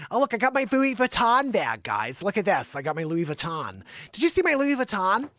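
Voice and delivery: lightly mocked bag braggart; mock show-off. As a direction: show off "Louis Vuitton" in Americanized "tahn". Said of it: "you're gonna be like".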